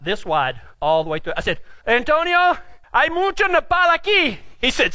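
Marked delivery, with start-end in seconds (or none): 1.9-4.4 higher, called-out Spanish; calling out. Retold or imitated. Rider calling to Antonio about the cactus, calling out. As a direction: act out hailing a partner.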